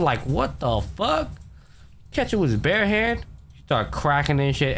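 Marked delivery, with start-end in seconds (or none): 0.3-3.2 incredulous. Retold or imitated. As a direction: replay your shock, pitched way up. Retells disbelief at bare-handed catch.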